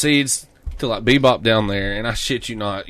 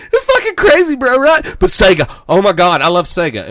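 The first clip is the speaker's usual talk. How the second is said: much higher, louder bragging bro voice; 8 semitones higher, 6 dB louder than usual. Retold or imitated. Imitating the clerk, high loud boasting bro voice. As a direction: boast about mods, hyped.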